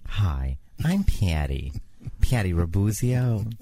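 put-on persona voice. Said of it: "we agreed we weren't gonna have you do that".

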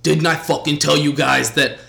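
a hint of a brash New York host; loud hype-man boast, lightly voiced; mild imitation of the podcast host hyping the crowd; Rapaport impression. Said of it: "I can't do his accent".

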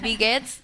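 Wie geht's said in German, "vi gets"; German phrase. Shown as a demonstration. Explaining how to ask how are you in German, in German. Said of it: "Y ya le dices".

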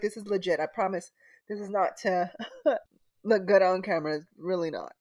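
tearful half-laugh; laughing through tears. Real, not acted. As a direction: laugh it off while still crying. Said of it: "snotty s-, crying".

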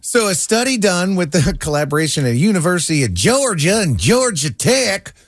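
folksy Southern storytelling twang. Pretend. Keeps joking in Southern drawl.

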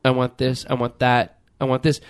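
low, quiet mock customer dithering over choices; indecisive customer. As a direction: mumble like a picky customer who can't decide. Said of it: "everybody's going".

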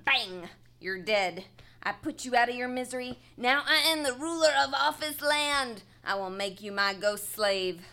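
loud gloating game villain; triumphant. Pretend. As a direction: crow over your fallen sheriff. Triumphant in pretend shootout.

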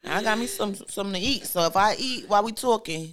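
talking with a mouthful of food; chewing while talking. Real, not acted. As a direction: eat and talk at once. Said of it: "I hope y'all don't mind me eating".

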